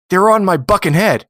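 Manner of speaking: high, loud punchline; little boy pirate. Acted. Boy answering the old lady, high and loud. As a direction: land it as the cheeky pirate kid. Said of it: "And he goes".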